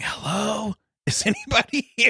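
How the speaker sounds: very high, hushed stage whisper. Retelling calling out at night, not wanting to wake the house: retelling a half-whisper. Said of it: "And so I'm whispering".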